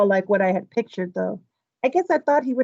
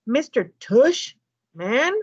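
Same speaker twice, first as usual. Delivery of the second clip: incredulous repeat; 3 semitones higher, much slower than usual. Retold or imitated. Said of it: "I repeated".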